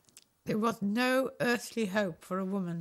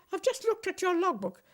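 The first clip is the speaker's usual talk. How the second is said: high-pitched, indignant telling-off; mock-furious instructor, pitched high; retold furious instructor; 7 semitones higher than usual. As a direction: replay his outraged rebuke, pitched up. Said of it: "he was livid".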